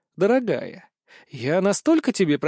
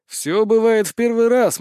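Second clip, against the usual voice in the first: mock seducer; 6 semitones higher, 5 dB louder than usual.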